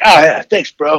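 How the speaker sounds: lightly voiced kid playing it cool; acting cool. Dad imitating his son acting cool, understated. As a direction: shrug off the compliment like it's nothing. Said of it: "he tries to act all cool".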